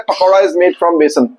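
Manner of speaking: slow, careful English sentence; slow English demo. Retold or imitated. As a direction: spell it out slowly for the class. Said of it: "तो English में बोलते हैं".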